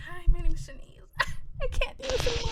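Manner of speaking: high, squeaky imitation of nerves, breaking into laughter; mock your own stage fright, laughing; mock nervousness. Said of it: "You were nervous in the beginning".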